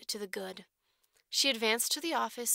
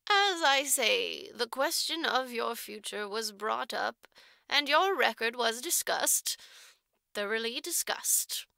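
lightly voiced matron, slow and accusing; a hint of an accusing matron weighing each word; slow stern matron; 4 dB louder than usual. Matron lectures Jerusha on her record, slow and stern.

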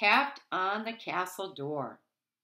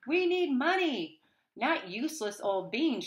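furious mother; 6 semitones higher than usual. A narrator's reading. Mother scolds Jack, furious. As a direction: snap at the son over beans. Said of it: "Jack's mother was furious".

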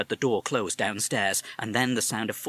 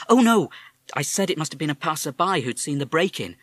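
mother; 6 semitones higher, 7 dB louder than usual. Acted. Mother explains.

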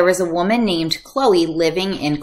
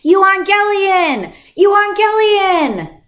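much higher, louder, slow ringing cry; herald's proclamation; 11 semitones higher, 6 dB louder, slower than usual. Retold or imitated. Roman messenger announcing to the town, slow ringing herald cry. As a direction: call it out like a royal herald. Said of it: "start their proclamations with this Greek word".

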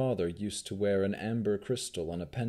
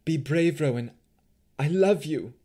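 higher, louder heartfelt goodbye; emotional farewell; 5 semitones higher, 6 dB louder than usual. A narrator's reading. Mother to daughter in one last embrace, emotional farewell. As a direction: urge courage with urgent love.

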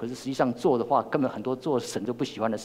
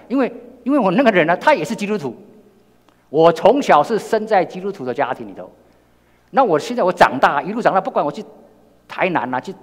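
emphatic preaching; 7 semitones higher, 8 dB louder than usual. Real, not acted. Preacher stresses Christian upbringing.

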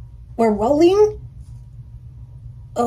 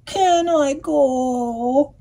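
pleading duck; 5 semitones higher, much slower than usual. Acted. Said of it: "he said".

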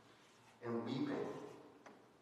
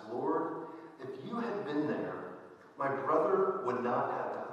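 higher, rising cry of grief; emotional plea; 4 semitones higher, 3 dB louder than usual. Acted. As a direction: let Mary's grief reproach him. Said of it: "Mary is a little bit more emotional".

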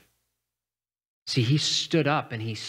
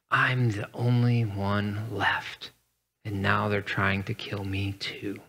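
self-pity; 3 semitones lower than usual. Acted. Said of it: "from a perspective of self-pity".

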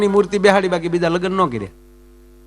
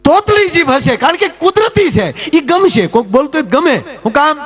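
emphatic preaching; 9 semitones higher, 3 dB louder than usual. Real, not acted. Preaching the point with force.

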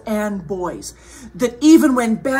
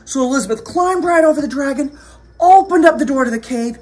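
quick, lifted storytelling; animated story narration; 5 semitones higher, 8 dB louder, faster than usual. A narrator's reading. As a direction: hurry through the action for young listeners.

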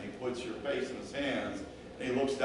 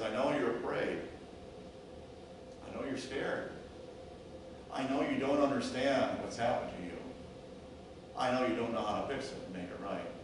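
calm, reassuring; 2 semitones lower, 7 dB quieter, faster than usual. Acted. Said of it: "he speaks slowly and calmly".

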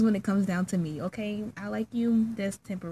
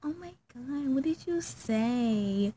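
lightly voiced excitable kid, drawn-out ending; mock an eager youngster, stretching the words; gushing youngster impression; 5 semitones higher, slower than usual. Mimicking little youngins begging for gossip, mock gushing. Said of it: "how them little youngins be like".

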